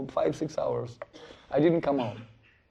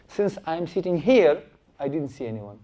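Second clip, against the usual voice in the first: sly Brahmana. Acted. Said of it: "He didn't disclose the truth".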